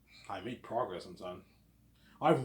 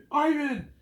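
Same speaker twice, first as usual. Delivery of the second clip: high, loud shout of the name; retold manager yell; 8 dB louder than usual. Manager yelling at his employee, a high loud mock shout. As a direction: bark the name like an angry boss. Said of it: "He was yelling at me".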